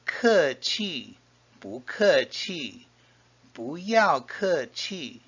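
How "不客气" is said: "不" rising into a falling "客气"; second-tone bu. Shown as a demonstration. Teacher teaching the reply to thanks, rising "不". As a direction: climb on "不", fall on "客" and "气". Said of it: "changes to a second tone".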